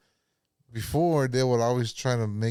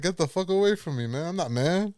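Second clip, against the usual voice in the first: higher-pitched irritated brush-off; exasperated retort; 5 semitones higher than usual. Retold or imitated. Bouncer tells people to back off, exasperated. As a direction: push them away in an indignant retold voice.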